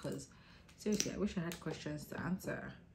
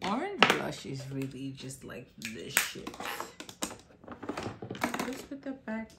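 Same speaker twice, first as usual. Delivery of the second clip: excited; 9 dB louder than usual. Real, not acted. Tipsy enthusing about makeup.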